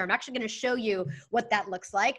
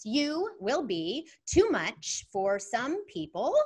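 slow deliberate reading; much slower than usual. Shown as a demonstration. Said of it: "And it goes like this".

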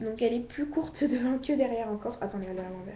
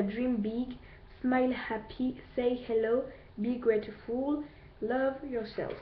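reading the English slogans in a put-on English accent; a French speaker playfully doing an English accent; English accent attempt; slower than usual. Shown as a demonstration. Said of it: "Ah oui, mon accent, il est trop beau".

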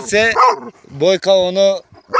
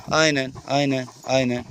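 low, quiet praise; quietly praising the snake as it settles, low and soft; soft approval; 7 semitones lower, 6 dB quieter than usual. Real, not acted. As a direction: murmur yes, yes to the snake.

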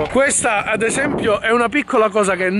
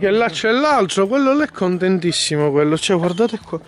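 wind on mic. Real, not acted. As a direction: wind noise over the voice. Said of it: "Scusate il vento".

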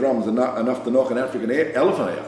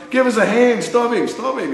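retold yell for help, much higher; desperate call; 12 semitones higher than usual. Pinned in a brawl, calling to crew for help, high yell. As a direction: cry out to mates to stop him.

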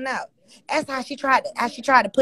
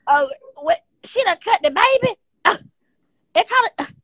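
high shocked disbelief; 6 semitones higher than usual. Real, not acted. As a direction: react in stunned surprise. Shocked by news.

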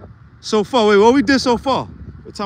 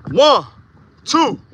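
counting reps; 2 semitones higher than usual. Real, not acted. Counting push-up reps aloud.

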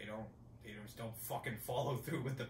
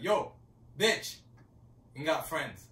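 taunting roommate; 2 semitones higher, 8 dB louder than usual. Retold or imitated. Retold roommate taunt, louder.

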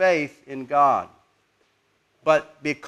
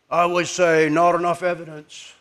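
put-on British haughty accent. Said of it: "in his British haughty type accent".

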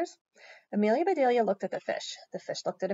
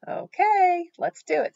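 higher, louder, game for it; enthusiastic agreement; 11 semitones higher, 8 dB louder, slower than usual. A narrator's reading. Harry agreeing to pitch the tent, enthusiastic. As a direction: agree with a big lifted okay.

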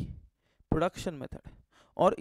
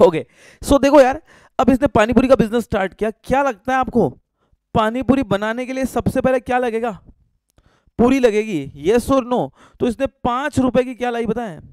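loud; 3 semitones higher, 9 dB louder than usual. Real, not acted. Teacher raising voice for clarity.

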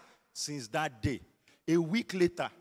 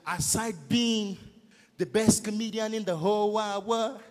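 higher, put-on white foreigner's accent; Oyibo accent; 4 semitones higher than usual. Shown as a demonstration. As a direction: gush the introduction in a mock Oyibo accent. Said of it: "Just do like Oyibo".

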